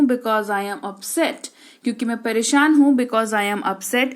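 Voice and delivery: slow, spaced out words; slow model answer. Shown as a demonstration. Teacher slowly repeats the answer for learners.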